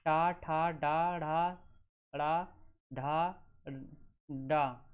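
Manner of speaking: flapped consonants sounded out one by one; teacher sounding out. Shown as a demonstration. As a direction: pronounce each retroflex flap distinctly. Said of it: "जैसे".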